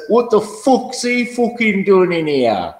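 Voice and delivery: slow, lightly voiced imitation of a rival; mocking D-Beck. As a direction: ham up the rival's scornful question. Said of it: "oh, he goes".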